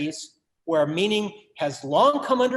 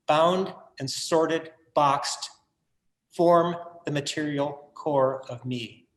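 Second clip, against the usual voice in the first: poem reading. Acted. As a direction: read it like a solemn elegy. Reads his own poem aloud.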